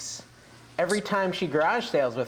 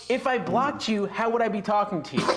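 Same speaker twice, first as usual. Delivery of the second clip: higher-pitched, mildly exasperated retold comeback; incredulous retort; 5 semitones higher than usual. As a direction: point out the absurdity, retelling it. Retold retort to illogical accusation.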